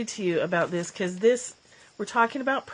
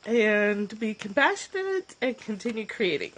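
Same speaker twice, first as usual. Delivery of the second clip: choked up; 3 semitones higher than usual. Real, not acted. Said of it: "I'm a little bit clubbed".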